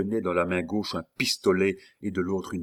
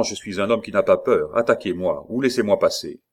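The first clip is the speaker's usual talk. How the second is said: impatient defiance; 5 dB louder than usual. Acted. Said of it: "dit Bussy".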